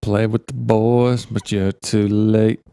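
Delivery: slow, drawn-out teasing echo; playful slow put-on voice; mock echo. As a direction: stretch it out like a put-on jingle. Mock echo of co-host's phrase.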